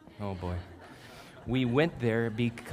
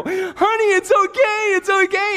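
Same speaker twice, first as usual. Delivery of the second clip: hammed-up pleading; 14 dB louder than usual. Husband pleading through bathroom door.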